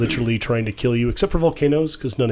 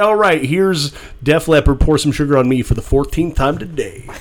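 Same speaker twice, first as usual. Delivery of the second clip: radio DJ voice; 2 semitones higher, 4 dB louder than usual. Pretend. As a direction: announce the song like a bored radio host. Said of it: "that sounds like a radio D J kind of thing".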